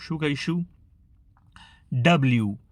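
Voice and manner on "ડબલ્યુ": ડબલ્યુ with a clear 'l', 'dub-l-yoo'; L pronounced. Shown as a demonstration. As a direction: keep the L audible in ડબલ્યુ. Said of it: "ઘણા લોકો લનો ઉચ્ચાર નથી કરતા". (ડબલ્યુ, 'લ'ના સ્પષ્ટ ઉચ્ચાર સાથે)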